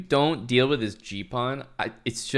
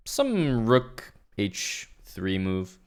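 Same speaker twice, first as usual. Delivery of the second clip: slow drawn-out pundit suggestion; chess commentator voice; much slower than usual. Pretend. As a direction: lean on some, slow and vague. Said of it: "another really good, uh, chess commentator word is the word sum".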